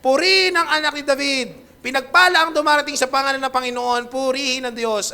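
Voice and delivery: mildly acted shout of praise; crowd's shout. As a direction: proclaim it like the crowd, easing toward the end. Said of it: "Anong sigaw nila?".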